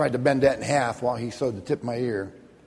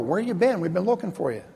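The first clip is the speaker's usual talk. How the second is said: higher-pitched imitation of searching friends; mock questioning; 5 semitones higher than usual. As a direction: act out friends wondering where she was. Retold friends calling girl to account.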